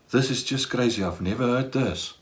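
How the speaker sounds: stunned hush. Retold or imitated. Speaker voices his stunned reaction.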